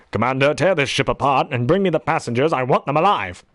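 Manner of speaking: forceful, commanding villain; younger Darth Vader. Acted. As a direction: order it like an imperial commander. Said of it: "back then, he would go".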